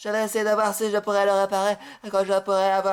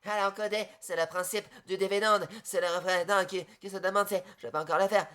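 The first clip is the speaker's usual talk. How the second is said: much softer murmured aside; softly spoken aside; quiet aside; 7 dB quieter than usual. Real, not acted. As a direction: drop your voice for an aside.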